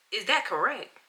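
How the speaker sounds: repeating the question in disbelief; flat incredulous repeat of "Is that correct?"; incredulous echo. Real, not acted. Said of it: "I had to keep it cute".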